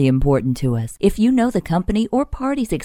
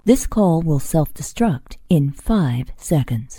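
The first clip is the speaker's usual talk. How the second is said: spy mission message; 2 semitones lower than usual. Acted. Spy mission joke line.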